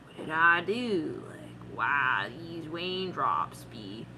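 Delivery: very slow, drawn-out moping; mock mournful lament. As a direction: stretch it out in hammed-up self-pity, starting low. Acted mournful reflection on raindrops.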